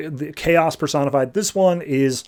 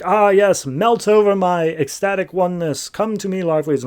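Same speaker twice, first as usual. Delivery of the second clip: higher, hammed-up temptress; mock seductive; 5 semitones higher than usual. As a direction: lightly act out a seductress beckoning. Voicing Ardora seducing Larfleeze.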